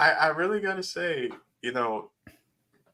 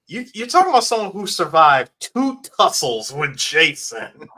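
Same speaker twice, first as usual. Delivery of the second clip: put-on elderly white guy voice; 3 semitones higher, 5 dB louder than usual. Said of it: "Talking like an elderly white guy now".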